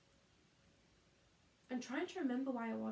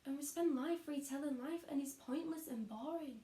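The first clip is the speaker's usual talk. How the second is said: bitter disillusionment; 3 semitones higher than usual. Acted. Bitter questioning of wasted lives.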